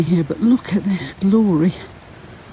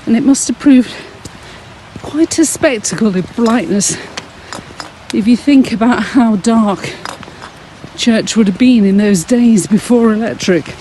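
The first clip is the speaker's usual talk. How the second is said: breathless from walking uphill; puffing between phrases; out of breath. Real, not acted. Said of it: "I sound so out of breath".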